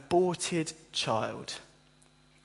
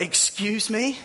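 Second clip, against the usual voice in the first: much higher and a bit louder, stunned disbelief; incredulous surprise; 7 semitones higher, 3 dB louder than usual. Retold or imitated. Crowd seeing Jesus come from the east, high and incredulous. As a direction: squeal out the shock of the crowd. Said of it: "And people are like".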